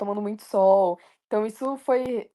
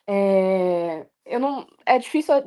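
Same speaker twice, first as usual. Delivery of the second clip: voice breaking; slower than usual. Real, not acted. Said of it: "eu não chorei por muito pouco".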